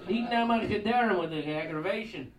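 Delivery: put-on loud, exasperated stereotyped Jewish accent; caricatured Jewish accent. Clerk arguing with the kid about his savior, caricatured Jewish accent. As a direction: kvetch loudly in a hammed-up Jewish accent. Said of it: "A Jew".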